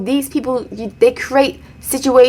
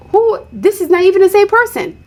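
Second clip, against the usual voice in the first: shocked; 8 semitones higher than usual. Retold or imitated. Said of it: "you're like".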